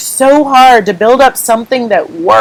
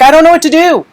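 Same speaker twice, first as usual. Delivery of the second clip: higher-pitched, helpless complaint; exasperated retold plea; 7 semitones higher, faster than usual. Retells venting to husband.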